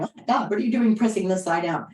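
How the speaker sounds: quick, mock-panicked protest; alarmed body voice. Teacher voicing a strained body's alarm, mock panic. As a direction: play the body startled and complaining. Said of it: "your body isn't going".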